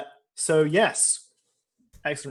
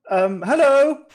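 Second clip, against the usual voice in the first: put-on high, loud, nervous German accent; 12 semitones higher, 10 dB louder, slower than usual. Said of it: "so that I don't lose the accent".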